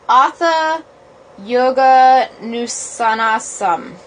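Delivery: slow, deliberate "Atha Yoga Nusanasam"; careful Sanskrit reading. Shown as a demonstration. Reading the first sutra aloud, carefully. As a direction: read the Sanskrit line slowly. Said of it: "how to say it".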